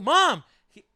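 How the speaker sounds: high-pitched call for mom, imitated; mock whining girlfriend. Girlfriend begs mom to make him leave, mock whining. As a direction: play a petulant daughter complaining, voice way up.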